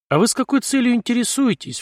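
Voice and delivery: high-pitched, lightly voiced old Jewish man. A narrator's reading. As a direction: question back like a wary old Jewish man. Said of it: "включил Артём режим старого еврея". (с лёгкими интонациями старого еврея)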